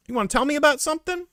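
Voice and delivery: quick, high mimicked cop question; prying detective. Detective fishing for a confession, mimicked high. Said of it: "he was like".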